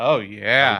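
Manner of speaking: mock agreement, dripping with heavy sarcasm. Answering another speaker's doubtful question: dripping with sarcasm. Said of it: "that was dripping with sarcasm".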